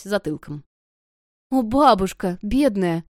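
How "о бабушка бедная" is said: loud pitying cry for poor grandma. A narrator's reading. Girl pities injured grandmother.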